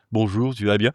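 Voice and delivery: neutral Parisian accent, southern twang dropped; understated Parisian accent for a snooty type; accentless Parisian French. Shown as a demonstration. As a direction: say it in even, standard Parisian French. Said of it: "c'est l'accent parisien sans accent".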